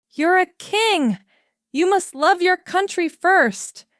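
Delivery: high, loud reproach; stern scolding. A narrator's reading. Queen mother scolding the king about duty. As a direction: scold him like an angry queen. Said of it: "Queen Mary shouted".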